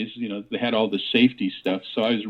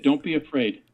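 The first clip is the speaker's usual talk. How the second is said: lightly imitated Norwegian accent; 3 semitones higher than usual. Quoting the dead man's words from the coffin, light Norwegian accent. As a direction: echo the old man with a hint of Norwegian accent. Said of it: "in his Norwegian, uh, uh, accent, heavy accent".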